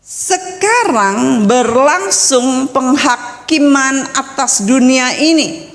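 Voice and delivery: slow, deliberate Bible reading; measured, solemn recitation; scripture reading. Real, not acted. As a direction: read the verse out with weight on each word. Reads scripture aloud.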